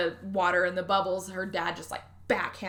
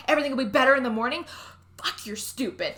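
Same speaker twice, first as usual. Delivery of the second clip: mock angry father; 4 semitones higher, 3 dB louder, faster than usual. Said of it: "really mad about it".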